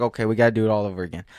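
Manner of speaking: snippy attitude. Retold or imitated. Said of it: "she's giving me attitude".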